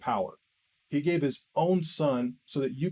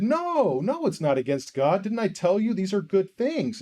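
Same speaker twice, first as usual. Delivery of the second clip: insistent denial; 4 semitones higher than usual. Retold or imitated. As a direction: retell an indignant denial, pitch jumping up. Acted argument, denying it is wrong.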